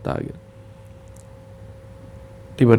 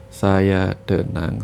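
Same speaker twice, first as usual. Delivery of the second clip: calm self-talk; much slower than usual. Shown as a demonstration. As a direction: say it slowly to settle yourself. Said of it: "beri perintah kepada tubuh untuk menenangkan dirinya".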